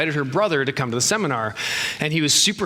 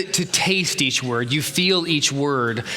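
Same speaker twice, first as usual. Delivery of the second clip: slow demo; slower than usual. Shown as a demonstration. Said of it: "Like, you're trying to".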